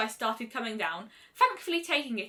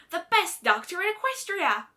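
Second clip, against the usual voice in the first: louder and higher, beaming pride; proud boast; 8 semitones higher, 5 dB louder than usual. A narrator's reading. Rainbow tells Celestia her dream, loud and proud.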